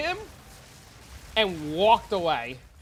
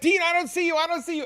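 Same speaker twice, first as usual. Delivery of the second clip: high, loud mock-innocent dad, higher and louder; hammed-up fake denial, high pitched; playing dumb; 12 semitones higher, 6 dB louder than usual. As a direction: tease the kid by pretending not to see him. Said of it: "And I'm like".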